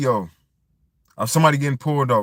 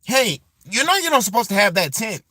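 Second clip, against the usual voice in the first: higher, pinched voice squeezed from the throat; mock a cop straining to sound white and proper; put-on white cop voice; 8 semitones higher than usual. Cop at the tent stop, in a pinched mock white voice. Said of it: "talking like this".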